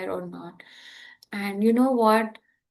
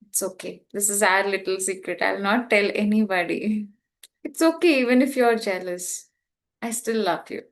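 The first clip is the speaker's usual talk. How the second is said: gentle self-comfort; 3 semitones lower than usual. Retold or imitated. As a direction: soothe yourself like a close friend. Comforting herself in the mirror.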